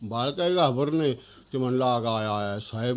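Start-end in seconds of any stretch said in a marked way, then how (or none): 1.8-3.0 lower, softer lament "आय, आय"; mock wail. Boy wails at getting lost.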